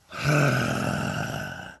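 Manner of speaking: a long, hammed-up theatrical sigh; exasperated stage sigh. Ghostly voice sighing at Owen in the dark, exasperated stage sigh. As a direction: heave it out like a bored stage ghost. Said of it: "an exasperated stage sigh by the third one".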